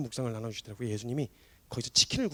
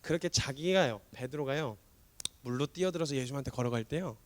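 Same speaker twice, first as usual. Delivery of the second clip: ordinary talk, nothing marked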